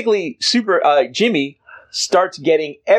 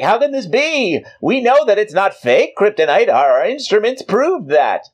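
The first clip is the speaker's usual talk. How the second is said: baffled villain; 9 semitones higher than usual. Acted. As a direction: demand answers in disbelief. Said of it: "he's like".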